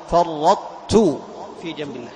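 very slow, "فرطت" with the ط merged into ت but its emphatic closure kept; Quranic recitation demo. Shown as a demonstration. Teacher demonstrating partial merging in "فرطت", very slow recitation. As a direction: draw out "فرطت", ط heavy into a doubled ت. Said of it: "لاحظ هذا الإطباق".

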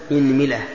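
"إنملة" said as inmila; opening i, middle i. Shown as a demonstration. Teacher lists variants for students, "إنملة" as inmila. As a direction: say "إنملة" with kasra on hamza and mim. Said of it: "كسر الهمزة".

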